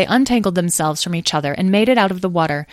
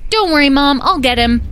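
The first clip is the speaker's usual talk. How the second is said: put-on high, loud child's holler; yelled; 9 semitones higher, 6 dB louder than usual. A narrator's reading. Edwin yells to his mother as he chases Smudge, yelled. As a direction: shout back while giving chase. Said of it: "yelled Edwin".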